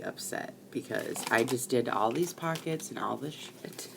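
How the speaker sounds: breathy laughing half-whisper, slowed down. Real, not acted. Crafter whispering to viewers about ruining her page, laughing. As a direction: hush it like a guilty confession, slow.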